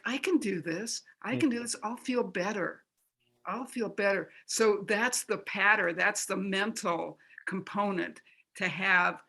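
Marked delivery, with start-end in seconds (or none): 0.1-4.3 calm self-talk. Shown as a demonstration. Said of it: "It's like".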